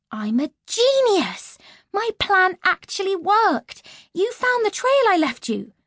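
a loud, slow, delighted boast; triumphant glee. Acted. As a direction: crow about your own clever plan. Triumphant, plan worked.

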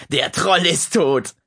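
slow, loud victory shout; triumphant yell. Acted. Dennis yells from his room, loud triumph. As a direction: crow over the win. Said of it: "brüllte Dennis".

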